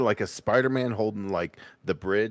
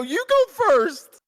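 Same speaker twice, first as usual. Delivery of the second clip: drawn out and loud, each word pressed; slow insistent repeat; 9 dB louder, much slower than usual. Real, not acted. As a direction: stretch it out, insisting loudly. Repeats it slowly, louder.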